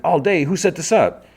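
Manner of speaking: high, loud indignant demand; acted alarm, pitched right up; incredulous outrage. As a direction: demand who's to blame. Boss incredulous at the news.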